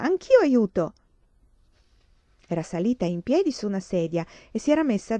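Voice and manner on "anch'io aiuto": put-on high, bright little-child chirp; cheerful chirp. A narrator's reading. Little Grace chirps to her sisters, cheerful and high. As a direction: pipe up eagerly, proud to help. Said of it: "Grace cinguettò tutta allegra".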